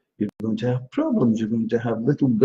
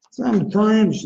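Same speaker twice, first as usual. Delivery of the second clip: cool-person voice; 9 semitones higher, 4 dB louder, slower than usual. Retold or imitated. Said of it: "talk like that too".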